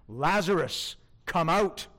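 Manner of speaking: a firm, commanding order to the dead; commanding call. Shown as a demonstration. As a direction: call him out with full authority. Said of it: "Note the commanding tone of that command".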